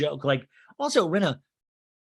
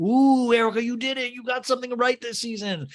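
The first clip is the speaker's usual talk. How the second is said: high, sing-song cooing praise; hammed-up sarcastic cheer; mock congratulations; 10 semitones higher, 4 dB louder than usual. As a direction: gush as if praising a small child.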